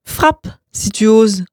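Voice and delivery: slow, daring taunt; cool taunt. Acted. Roman daring his brother to strike, slow taunt. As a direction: dare him, taking your time. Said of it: "jeta Roman".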